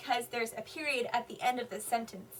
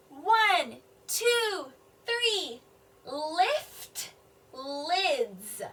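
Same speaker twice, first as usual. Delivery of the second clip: announcing count; 2 semitones higher, much slower than usual. Acted. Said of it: "Fritz is telling all the super kids".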